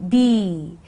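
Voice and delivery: B with a long, held ee; stressed E. Shown as a demonstration. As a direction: stretch the ee in B. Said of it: "stressed E sound as in B".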